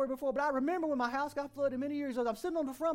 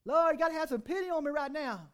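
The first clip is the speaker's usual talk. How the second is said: desperate plea; 4 semitones higher, 4 dB louder than usual. Retold or imitated. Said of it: "That's how I felt".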